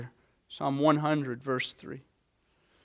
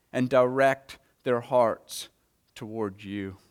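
prayer. Real, not acted. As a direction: pray over the congregation, slowing and quieting. Pastor leads a prayer.

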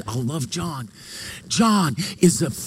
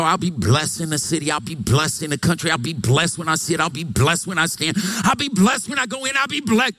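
Pastor Wynn. Retold or imitated. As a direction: imitate a preacher reeling off blessings, pitch leaping up late. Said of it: "Pastor Wynn would go".

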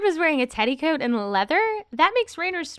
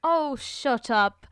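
hammed-up agent. Busy agent tells off actor, hammed-up reading. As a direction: play a mock-British agent dragging out the complaint. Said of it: "you get to be his agent".

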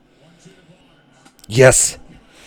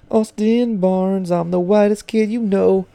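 announcer voice; 11 semitones higher, slower than usual. Pretend. Repeats the hype intro.

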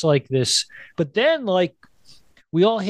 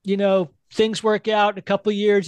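imitating Whoopi; 7 semitones higher than usual. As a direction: linger on the hopeful offer. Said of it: "She's like".

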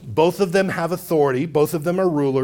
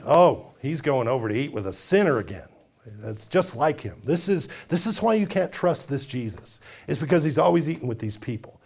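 grumbling; 3 semitones lower, 3 dB quieter than usual. Acted. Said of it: "grumbling and complaining".

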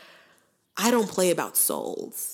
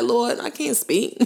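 imitating Moses; 4 semitones higher than usual. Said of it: "Moses is like".

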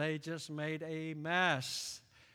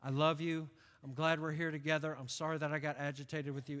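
softer, lower fatherly apology; tender apology; 4 semitones lower, 4 dB quieter than usual. Retold or imitated. Lightly voiced father apologizing to his son, tender. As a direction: gently say sorry to your son. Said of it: "if my dad would have said to me".

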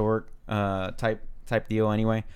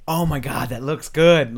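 full-voice exclamation, louder on the end; imitated loud whisperer; 4 semitones higher, 5 dB louder, slower than usual. Host mimicking Miles during previews, full normal voice. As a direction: imitate someone who thinks this is whispering. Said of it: "just normal voice".

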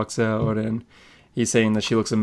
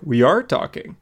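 higher, lightly cocky retort; joking quip; 4 semitones higher than usual. Retold or imitated. Arthur quipping back at Mura, lightly joking. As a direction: toss it off as a playful quip. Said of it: "kinda is a little Jason Momoa he, here. He starts doing quips".

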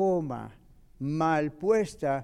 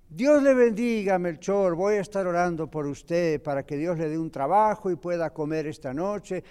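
pious churchgoer blessing; 4 dB louder than usual. Acted. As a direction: bless him from a distance, all piety and no help. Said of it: "y ustedes van y le dicen".

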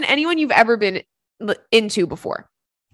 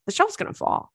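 high, soft, anxious squeak; mock alarm; 10 semitones higher, 5 dB quieter than usual. To himself eyeing the tilted shelf, high worried squeak. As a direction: fret that the shelf will fall.

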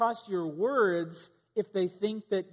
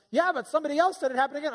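questioner; 7 semitones higher, 3 dB louder, much faster than usual. Retold or imitated. Questioning someone caught lying.

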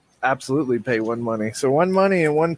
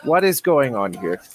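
sudden friendly turn; 4 semitones higher than usual. Acted. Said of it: "abruptly changes attitude".

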